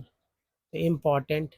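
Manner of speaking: तो इम्पोर्टेंट said slowly, syllable by syllable; teacher models इम्पोर्टेंट slowly; slow pronunciation demo. Shown as a demonstration. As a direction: spell out इम्पोर्टेंट slowly for learners. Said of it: "टेंट है तो देखिए टेंट है यहाँ पर".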